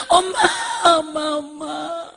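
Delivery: loud, high acted wail; crying children. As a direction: cry out for mother in long, drawn-out calls. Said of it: "그러면서 눈물을 닦아주고 서로가". (우는 아이들처럼 길게 울부짖기)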